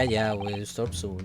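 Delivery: ordinary delivery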